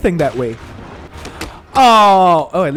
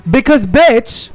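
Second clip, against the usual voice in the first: louder, slow, every word hit; slow angry emphasis; 5 semitones higher, 4 dB louder, slower than usual. Real, not acted. Streamer scolding ex over taking space, slow loud anger. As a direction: lay it out slowly and hard.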